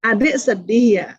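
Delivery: put-on name the child's feeling tenderly; gentle validation. Shown as a demonstration. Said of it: "Makanya bukan gitu nanyanya". (lembut dan pelan menenangkan anak)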